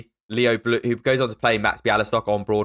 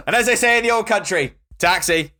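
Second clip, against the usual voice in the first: put-on old-country joke voice; 11 semitones higher than usual. Joking old-country quote.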